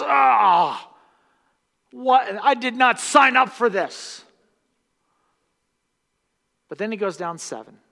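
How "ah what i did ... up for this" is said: loud, much higher indignant cry; outraged Naaman. Retold or imitated. Preacher voicing Naaman outraged at the sixth dip. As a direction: protest like you were tricked. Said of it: "He goes down for dip number six".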